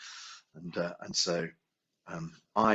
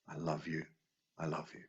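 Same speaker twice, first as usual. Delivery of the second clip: softer repeated, dying away; tender fading; 7 dB quieter than usual. Shown as a demonstration. Teacher showing the final Ho'oponopono line, tender and fading. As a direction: murmur it gently, quieter each time. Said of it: "And the final line is".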